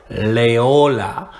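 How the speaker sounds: "Loyola" said as lay-OH-la; easier pronunciation. Shown as a demonstration. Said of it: "not just the easiest way to pronounce".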